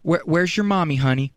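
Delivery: normal talking voice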